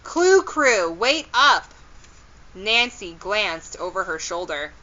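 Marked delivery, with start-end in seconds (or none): 0.0-1.7 high, raised-voice call; yelling out. A narrator's reading. Kendra runs behind the girls, yelling out high. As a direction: call after friends ahead of you. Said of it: "a voice yelled out".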